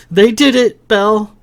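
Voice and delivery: Lily shouting as he is pulled away. A narrator's reading. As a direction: call out as you're dragged away. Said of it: "Lily shouted".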